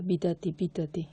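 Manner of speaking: 미다디 with a lisping tongue; childish lisp on 미다디. Shown as a demonstration. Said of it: "혀 짧은 소리가 나요".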